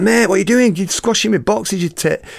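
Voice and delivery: high, loud indignant complaint; mock outrage at being squashed; retold protest. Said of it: "And I'm like".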